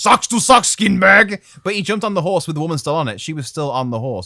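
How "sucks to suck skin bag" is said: slow, raised, drawn-out, taunting holler. Retelling how a man leapt onto a lady's horse: imitating a man shouting. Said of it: "once again shouting something".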